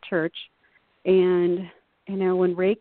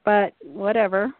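mildly dismissive, with a small laugh; eye-rolling dismissal; 4 semitones higher than usual. Retold or imitated. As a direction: brush it off with a mock eye-roll. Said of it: "people are rolling their eyes like".

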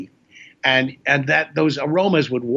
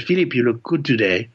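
put-on French accent. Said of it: "there was this one French guy".

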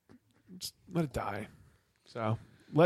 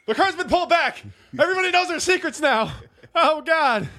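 laughing; 14 semitones higher, 4 dB louder than usual. Real, not acted. Laughing high voice.

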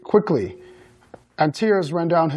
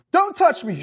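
high-pitched angry warning; Daphne shouting; 11 semitones higher than usual. A narrator's reading. Mother warning off her older son, shouted. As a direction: raise the pitch sharply, without much volume. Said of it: "shouted Daphne".

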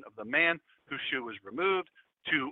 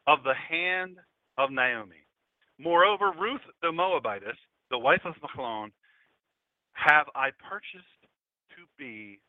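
scripture reading. Acted.

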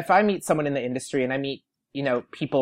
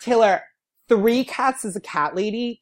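high, loud mock-serious ruling; sudden emphatic verdict; 7 semitones higher, 4 dB louder than usual. Fan correcting Taylor on cat ladies, suddenly emphatic. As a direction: pronounce it like an urgent rule. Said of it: "I suddenly was like".

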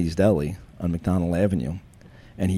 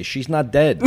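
higher, louder mock shout; raised-voice urgent outburst, acted out; retold yelling; 7 semitones higher, 5 dB louder, slower than usual. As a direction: imitate a medic yelling the alarm. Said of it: "they're yelling and they're screaming medical terms".

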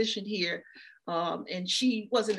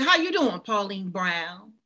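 firm, louder, stately calling of her name; authoritative greeting; 5 dB louder, slower than usual. Retold or imitated. Daughter greeting her mother with dementia, authoritative and proud. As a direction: greet her like a woman of standing. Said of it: "I say her name in an authoritative way".

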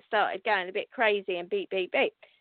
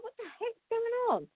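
surprised; 11 semitones higher, 6 dB quieter than usual. Retold or imitated. Baffled at sudden beeping.

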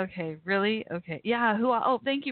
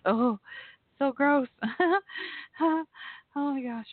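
disgusted; 8 semitones higher than usual. Real, not acted. Reacting to her knee popping.

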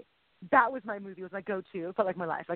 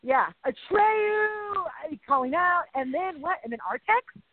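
getting excited; 5 semitones higher, slower than usual. Real, not acted. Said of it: "I'm getting loud".

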